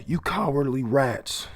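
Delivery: high, slow contemptuous sneer; sneering villain. Acted. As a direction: spit the insult at them slowly. Villain sneers at fleeing enemies.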